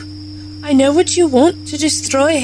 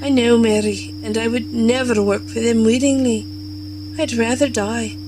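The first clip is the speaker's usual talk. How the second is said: lower, resolute and gentle; steady a frightened friend; grave reassurance; 4 semitones lower than usual. Acted. Captive doctor to her scared friend Mary, grave reassurance.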